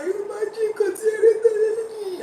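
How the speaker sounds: high-pitched, drawn-out tearful wail; mock crying. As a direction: imitate a woman crying her complaint. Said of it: "we will even cry".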